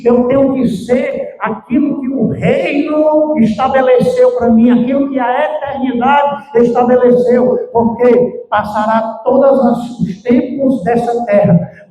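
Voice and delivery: insistent pulpit declaration; impassioned preaching. Real, not acted. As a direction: preach it with conviction, pitch lifted.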